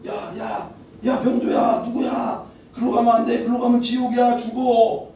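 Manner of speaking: high urgent calling out to a wanderer; Jesus calling out. Acted. Jesus calling after a man walking to hell, urgent high call. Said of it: "막 불러".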